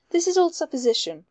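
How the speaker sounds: a touch of exasperated outcry; cried out. A narrator's reading. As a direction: cry out in mild protest. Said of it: "cried Mallow".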